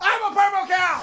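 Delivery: character voice, pitched very high and loud. Opening a radio show segment about the purple cow: purple cow impression. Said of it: "the speaker's impression of a purple cow".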